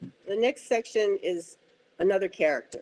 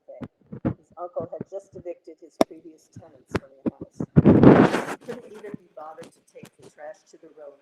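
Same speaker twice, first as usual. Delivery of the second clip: muffled, fading behind paper; mic covered by paper; 4 dB louder than usual. Real, not acted. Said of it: "you're covering your mic with your paper".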